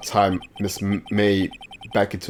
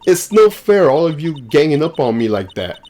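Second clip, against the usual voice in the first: whiny witness; 4 semitones higher than usual. Acted. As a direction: sulk like a spoiled girl ganged up on. Witness whines at the court.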